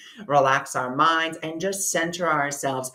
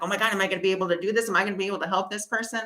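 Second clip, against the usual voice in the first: very fast, mildly panicky self-quote; retold freak-out; 3 semitones higher, much faster than usual. Healer fearing she can't help her client, retold freak-out. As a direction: race through the anxious thoughts. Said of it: "getting really, like, freaked out".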